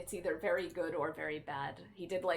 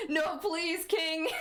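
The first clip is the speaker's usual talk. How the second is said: high, louder mock plea; mock begging; 10 semitones higher, 5 dB louder, much slower than usual. Streamer begging a viewer not to unfollow, high. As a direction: beg dramatically.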